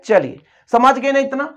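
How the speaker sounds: ordinary delivery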